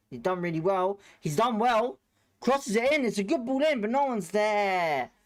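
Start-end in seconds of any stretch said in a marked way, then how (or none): 1.2-5.1 excited. Real, not acted. Exciting cross during live match.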